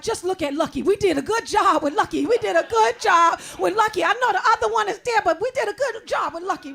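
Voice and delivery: lightly voiced proud mother, a touch smug; proud mom voice. Mother bragging about her daughter, lightly proud. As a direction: say it like a mom showing off her kid. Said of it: "I be like".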